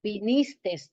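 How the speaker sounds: "vinistes" with final S; wrong form. Shown as a demonstration. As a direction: stress the S in "vinistes". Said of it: "termina con S".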